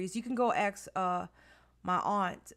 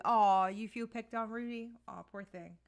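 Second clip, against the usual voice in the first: mock sympathy. Real, not acted. Mock pity for teased Rudy.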